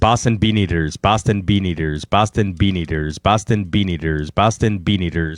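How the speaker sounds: five even takes run together without a pause; tongue-twister repetition. Shown as a demonstration. Co-host answering a say-it-five-times-fast challenge, steady tongue-twister repetition. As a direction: rattle off each repeat cleanly and evenly. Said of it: "Say that five times fast".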